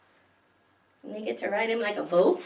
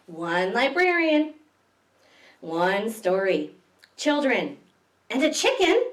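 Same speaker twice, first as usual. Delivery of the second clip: storybook refrain. A narrator's reading.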